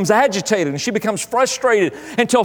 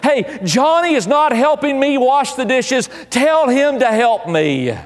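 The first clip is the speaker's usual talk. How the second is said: retold kid's yell; 5 semitones higher, slower than usual. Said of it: "you've yelled into the living room".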